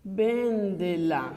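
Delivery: Véndela said slowly with the vén of Véndela stressed. Shown as a demonstration. Teacher modelling the stressed imperative slowly. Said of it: "Vou dar uma ordem aqui".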